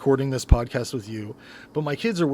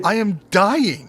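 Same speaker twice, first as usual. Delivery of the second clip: mock dying of shock; 7 semitones higher, 6 dB louder, slower than usual. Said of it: "it's just like".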